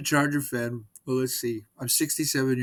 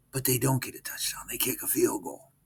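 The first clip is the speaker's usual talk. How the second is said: whispered aside. Real, not acted. Whispered aside about the game.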